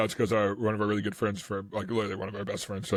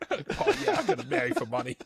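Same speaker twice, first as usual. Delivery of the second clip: laughing mock Boston accent; bad Boston accent; 4 semitones higher than usual. Voicing Jackson marrying for money, bad Boston accent. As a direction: play it as broad Boston, laughing through it. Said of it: "a wicked bad Boston accent".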